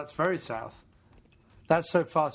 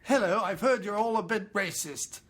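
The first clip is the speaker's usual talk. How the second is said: put-on English accent; 3 semitones higher than usual. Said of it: "a man from England".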